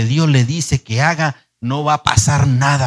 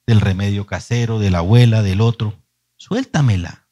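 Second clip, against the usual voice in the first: voice of God; 5 semitones lower than usual. Retold or imitated. God's voice speaks to him.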